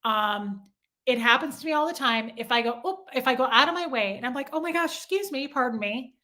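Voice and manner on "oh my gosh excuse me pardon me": soft, polite apology through a smile; re-enacted friendly little apology; smiling apology. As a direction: excuse yourself sweetly with a smile. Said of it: "I have a smile on my face".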